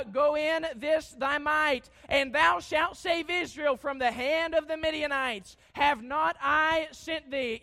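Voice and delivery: slow solemn command. Acted. God's command read slowly.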